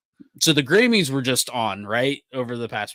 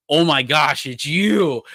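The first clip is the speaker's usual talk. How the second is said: startled recognition; 4 semitones higher, 5 dB louder, slower than usual. Retold or imitated. Manager's startled recognition, acted out.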